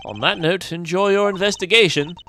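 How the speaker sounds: suave, lightly British farewell; British accent. Acted. Gentleman leaving the young investigators, British accent. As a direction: take leave in a mild British accent. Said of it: "keep the British accent".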